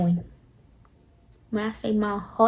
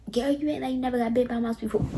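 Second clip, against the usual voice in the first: fast, softer mimicry of a dismissive friend; mocking friend's words; 4 dB quieter, faster than usual. Repeating the friend's dismissive line back, fast and mocking. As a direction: rattle off her words with scorn. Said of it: "How dare you tell me".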